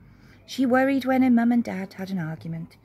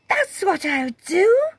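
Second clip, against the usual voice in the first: Jenny's reply; 12 semitones higher, 8 dB louder, slower than usual. A narrator's reading. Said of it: "she said".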